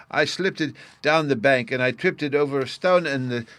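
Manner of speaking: put-on high, loud small boy explaining; little Bruno arguing. A narrator's reading. Bruno explains his fall to Sylvie, high and loud. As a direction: tell the story of the fall earnestly.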